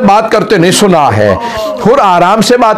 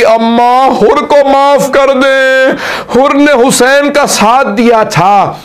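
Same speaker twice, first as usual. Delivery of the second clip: pleading lament; 7 semitones higher, slower than usual. Acted. Zainab pleads to her mother.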